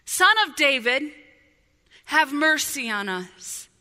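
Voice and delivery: loud preacher's acted plea; crying out. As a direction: call out to be heard, stretching the last words. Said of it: "they begin to cry out".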